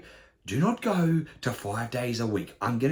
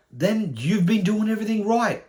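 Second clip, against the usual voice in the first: raised, insistent comeback; emphatic retort; 11 semitones higher, 5 dB louder than usual. Acted. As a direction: fire it back loud and high, less squeaky. Retort to the acted panic.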